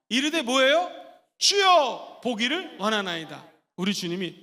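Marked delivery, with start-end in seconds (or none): 1.4-3.5 crying out. Shown as a demonstration. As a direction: beg to see, shouting. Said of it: "시작".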